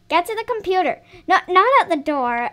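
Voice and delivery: mock stern mom repeating herself; firmer repeat.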